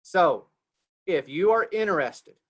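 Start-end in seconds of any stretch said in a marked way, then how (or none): 1.1-2.3 measured, emphatic instruction; slow and deliberate. Real, not acted. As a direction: spell it out carefully for the group. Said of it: "I'm gonna say this very slowly".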